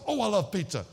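gushing. Retold or imitated. Relives his love of pizza.

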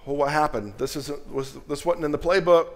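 high, loud hammed-up panic; mock panicking God. Preacher mocking the idea of God freaking out, hammed-up panic. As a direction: play a frantic God who lost the playbook.

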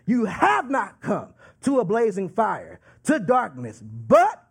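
firm weight on HAVE NOT COME, then a hard BUT; emphatic. Acted. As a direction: preach it with "have not" leaned on, "But" punched. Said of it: "He is saying that emphatically".

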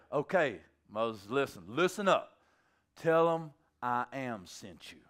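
lightly acted calm authority; patient instruction. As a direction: spell it out deliberately. God instructing Moses, acted.

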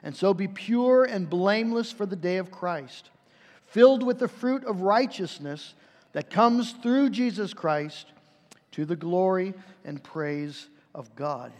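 measured, reverent Bible reading; scripture reading. Acted. Pastor reading scripture to the congregation, measured and reverent. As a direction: read the verse aloud to the church. Reads scripture before the sermon.

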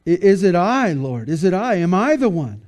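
questioning disciples. Retold or imitated. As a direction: imitate disciples anxiously asking, one question after another. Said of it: "and they went kinda".

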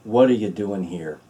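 gentle, tender question. Shown as a demonstration. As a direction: ask it gently, like a loving father. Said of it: "in a gentle way, in a whisper".

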